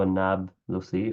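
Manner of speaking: النابلسي with no vowel after the b; colloquial Nablusi. Shown as a demonstration. Teacher showing the everyday form, colloquial an-Nablusi for النابلسي. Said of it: "in an عامي way".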